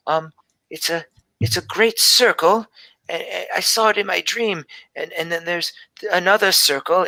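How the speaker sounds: a hint of a shy seven-year-old telling her dream; little girl Gelby. GM voices little daughter Gelby.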